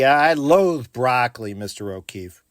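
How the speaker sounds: playful. Shown as a demonstration. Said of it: "in a fun way".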